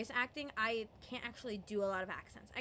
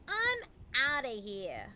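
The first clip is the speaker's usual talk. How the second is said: mimicked line; 2 semitones higher, 5 dB louder than usual. Shown as a demonstration. Showing how she mimics a movie line, pitched up. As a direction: toss off a favorite quote as a demo. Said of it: "mimic back certain things".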